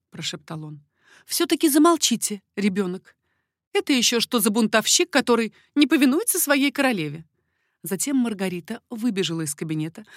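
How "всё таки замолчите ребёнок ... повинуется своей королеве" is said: higher, louder mock scolding; playful scolding. A narrator's reading. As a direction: tease him like a child. Queen playfully scolds lover.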